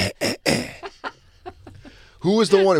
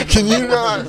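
mock Mahomes, pitched up; 9 semitones higher, 3 dB louder, slower than usual. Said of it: "He'd be like".

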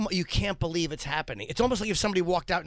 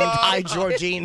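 crowd scream; 5 dB louder, much slower than usual. Retold or imitated. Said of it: "Twenty-five hundred people screamed".

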